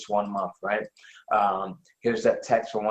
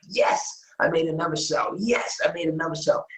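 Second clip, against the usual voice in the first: higher-pitched, thrilled little celebration; 6 semitones higher than usual. Retold or imitated. Seller reliving a middle-of-the-night sales check, thrilled. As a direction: relive the thrill of a fresh win. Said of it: "I'm still blown away and tickled".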